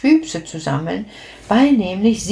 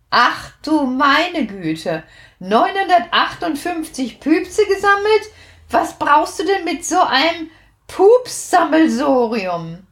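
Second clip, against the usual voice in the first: astonished; 7 semitones higher than usual. A narrator's reading. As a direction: gasp at the huge number. Astonished at 958 farts. (erstaunt, langsam und hoch)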